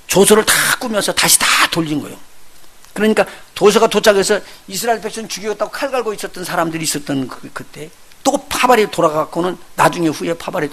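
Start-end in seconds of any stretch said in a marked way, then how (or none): none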